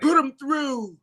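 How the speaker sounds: mock official. Mocking the White House staff.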